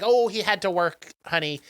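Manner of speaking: put-on English accent; lightly voiced English mum, making an excuse; imitation English accent. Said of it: "I'm doing an English accent".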